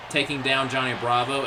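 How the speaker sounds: usual speaking voice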